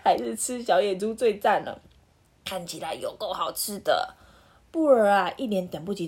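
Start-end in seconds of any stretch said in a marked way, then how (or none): 0.0-4.1 laughing, delighted wolf; laughing gleefully. Acted. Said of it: "好兴奋说".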